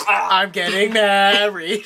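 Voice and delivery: slow, drawn-out fake joy; mock happy. Joining in on mocking a too-happy character, mock happy. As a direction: playfully overdo the happy announcement. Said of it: "It's too happy".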